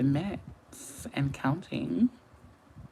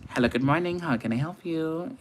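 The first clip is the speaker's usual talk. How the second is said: phone greeting; 5 semitones higher than usual. Shown as a demonstration. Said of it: "If you call me, that's what you're gonna hear".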